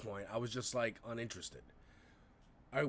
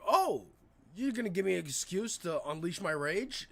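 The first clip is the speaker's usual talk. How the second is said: retelling his younger self, high and loud, rising to a fight; mock outraged challenge; 6 semitones higher, 4 dB louder than usual. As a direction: throw down the challenge like a hothead teen. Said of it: "And I was like".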